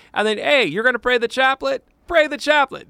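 put-on high, loud comic Portuguese accent. Priest playfully laying down his rule on the rosary, mock Portuguese accent. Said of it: "That's my Portuguese accent".

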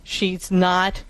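slow, calm reminder to yourself; steady yourself slowly and calmly; calm self-talk. Shown as a demonstration. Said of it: "saying to yourself quite clearly".

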